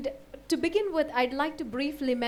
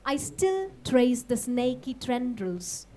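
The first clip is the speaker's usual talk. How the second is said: measured poem recital with pauses between short phrases; poetry reading; slower than usual. Acted. Poet reads a poem on Zhu Zimo to an audience, measured recital. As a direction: recite it line by line, letting each phrase hang.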